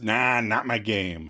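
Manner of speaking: slow, drawn-out brush-off; unhurried, retold refusal; dismissive. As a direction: wave it away lazily, slowly. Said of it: "Joey dismisses".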